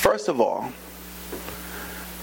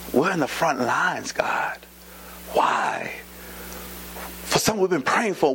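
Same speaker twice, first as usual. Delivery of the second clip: grieving prayer. Retold or imitated. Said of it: "I was like".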